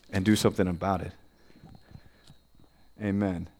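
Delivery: low-pitched, personal church prayer; heartfelt prayer. Real, not acted. Leads opening prayer.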